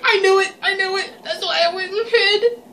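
panicked laugh of being caught. Real, not acted. Player caught by Bendy, laughing in panicked disbelief.

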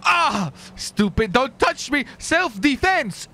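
high, stretched mock cry of self-defense; mock self-defense squeal. Gamer pretending to be attacked in the game, hammed-up high squeal. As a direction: squeal it like a cartoon victim.

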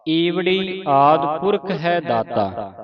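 slow, drawn-out measured chant; slow scripture recitation. Shown as a demonstration. Teacher reciting scripture slowly for a student. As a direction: recite slowly, pausing at each stop.

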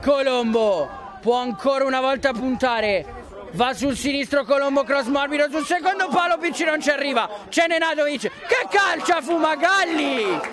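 excited commentary. Real, not acted. Another attack after goal.

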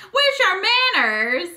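high, slow, over-the-top Southern belle; exaggerated Southern accent, high and slow. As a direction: drawl it like a prim Southern lady. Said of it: "this Southern accent".

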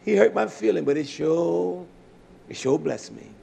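quietly voiced, slowing retold admission; humbled sister. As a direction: drag out "sure" in grudging gratitude. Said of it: "scratched her head and say".

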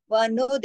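वनुद with a bouncing release on d; qalqala. Shown as a demonstration. Teacher models the echo, वनुद with a released d. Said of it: "दाल पे कलकला होगा".

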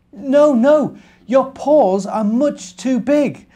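a tiny fussy ant pushing back. Acted. Ant turning down the bear's help, high squeaky little ant voice.

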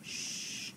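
long hushing "sh"; drawn-out "sh", as at the start of shark; digraph sound. Shown as a demonstration. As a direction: hold "sh" as one sound without a vowel. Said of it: "which says sh".

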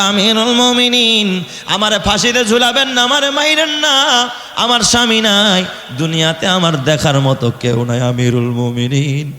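high, chanted tearful plea; acted wailing. Woman begging the caliph not to hang her, acted wailing. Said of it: "মহিলাটা হাউমাউ করে কান্দার".

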